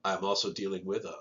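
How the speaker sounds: stuffy nasal voice from a sinus infection. Real, not acted. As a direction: talk through a blocked nose. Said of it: "sorry about the nasally voice".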